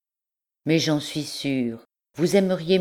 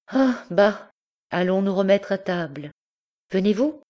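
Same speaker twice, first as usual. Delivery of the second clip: forced brightness; 7 semitones higher than usual. Acted. Marguerite brushes it off.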